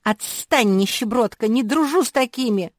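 high, loud, snappish little dog; barked rebuff. A narrator's reading. Labrador pup rebuffing the classmate who rushed over, barking indignantly. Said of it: "Лабрадориха села и гавкнула".

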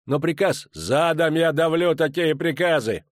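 put-on dwarf commander rages at young officer; furious dwarf. A narrator's reading. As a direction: rage at the insult to his troops. Enraged dwarf berates young officer.

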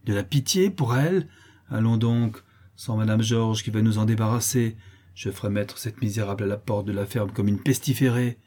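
harsh. Acted. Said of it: "répondit durement".

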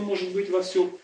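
ordinary talk, nothing marked

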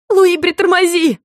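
высокий медленный крик; кричи в страхе, растягивая; испуганный крик. Acted. (громкий испуганный крик)

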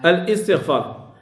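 "الاستغفار" slowly split as al-istighfar, with a glottal stop; hamza wrongly sounded. Shown as a demonstration. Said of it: "صحيح الشيء اللي قلت أنا؟". («الاستغفار» ببطء مع قطع الهمزة: أَلْ إِستغفار)

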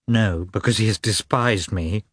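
a touch of a tremble, hurt and bitter; lightly shaken, wounded; shaking voice. Acted. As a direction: let the voice waver slightly. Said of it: "with a shaking voice".

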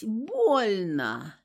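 pained moan on больно, drawn out and rising; half-moaned больно with a rising cry. A narrator's reading. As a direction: groan больно like the wind was knocked out. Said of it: "простонала я".

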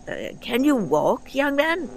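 put-on dry, amused old man; old doctor. A narrator's reading. The doctor eyeing the ship, wry and high.

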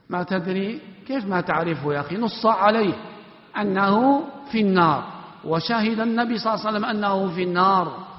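mild exasperated chiding. Real, not acted. Teacher chides student's ignorance.

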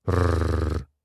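low rumbling growl; wolf growl. Acted. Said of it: "прорычала серая волчица".

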